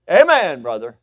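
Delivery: high, booming shout falling away; dad shouting amen. Retold or imitated. Dad cheering his preacher son, exuberant shout. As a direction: holler amen, then settle on brother. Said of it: "he'd go".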